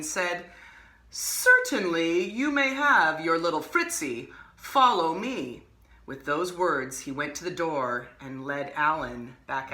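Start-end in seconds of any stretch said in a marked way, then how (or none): 1.1-5.7 smiling magician. Acted.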